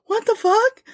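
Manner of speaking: high disbelieving what the fuck; shocked reaction. Retold or imitated. Host replaying her reaction to the news, in high shock. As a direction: recall your own jaw dropping. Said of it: "I was like".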